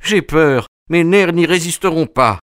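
on the edge of nervous collapse; terrified. Acted. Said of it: "Il hoquetait de peur".

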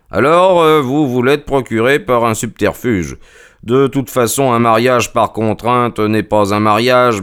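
voix de détective plus aiguë et assurée; Holmes accusateur. Acted. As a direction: prononcer son verdict avec fermeté. Holmes accuse les prisonniers. (Holmes sévère et péremptoire)

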